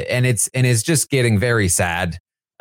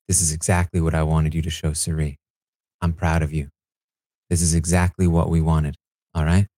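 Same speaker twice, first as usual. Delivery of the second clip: reassuring father figure; 4 semitones lower than usual. Retold or imitated. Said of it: "and he says".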